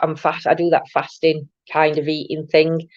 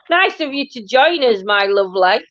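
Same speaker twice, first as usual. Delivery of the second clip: teasing; 6 semitones higher than usual. Acted. Teasing a late live viewer.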